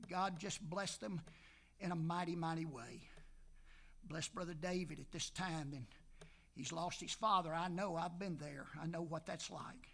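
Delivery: hushed pastoral prayer fading to a whisper. Acted.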